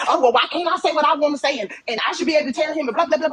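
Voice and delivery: high, fast, sing-song mockery of a defensive woman; a hint of a huffy woman brushing off advice; mocking whiny reply. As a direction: rattle it off like a petulant know-it-all.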